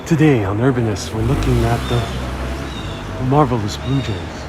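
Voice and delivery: slow, measured nature-documentary narrator; David Attenborough. Acted. Streamer showing blue jays to viewers, mock Attenborough narration. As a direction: present the birds like a wildlife film narrator, unhurried. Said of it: "That's my best David Attenborough impression".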